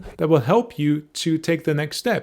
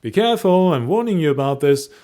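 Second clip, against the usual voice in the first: warning tone; 3 semitones higher, 4 dB louder than usual. Shown as a demonstration. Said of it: "The first one was like".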